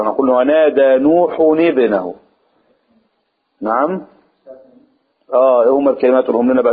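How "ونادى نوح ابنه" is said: ابنه joined to نوح with no glottal stop; نوح ابنه said as one joined flow; linked hamza. Shown as a demonstration. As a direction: run نوحُ ابنه together, nuhunibnahu. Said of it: "ما ننطقش فيها الهمزة".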